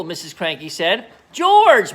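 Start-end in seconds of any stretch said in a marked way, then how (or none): 1.3-1.9 very high, loud call; shouting. Acted. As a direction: shout his name. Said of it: "Mister Cranky shouted".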